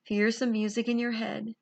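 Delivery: calm guided meditation, long pauses; guided visualization. Acted. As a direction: gently lead them inward, pausing between phrases.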